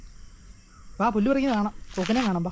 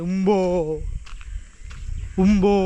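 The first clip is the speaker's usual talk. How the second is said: cow moo; 4 semitones lower than usual. Shown as a demonstration. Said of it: "പശുവും എങ്ങനെ കരയുന്നത്?".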